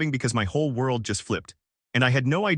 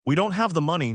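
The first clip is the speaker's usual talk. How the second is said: higher, raised mock shout; shouting back; 5 semitones higher than usual. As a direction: throw it back like a narrated shout. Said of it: "Dad shouts back".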